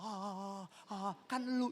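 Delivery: soft, put-on ha-ha laugh; imitated laughter. Listener laughing off the message, imitated laughter. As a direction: fake a giggle at the sermon. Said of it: "malah ketawa".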